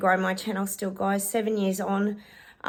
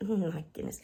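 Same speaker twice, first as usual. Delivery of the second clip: breathy whispered sigh of words; whispered exasperation; 6 dB quieter than usual. Real, not acted. Vlogger coping with her restless cat, whispered. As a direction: hush it out, mildly fed up.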